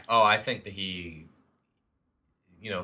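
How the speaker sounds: talking through a yawn. Real, not acted. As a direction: let a yawn stretch the words. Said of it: "I'm yawning, too".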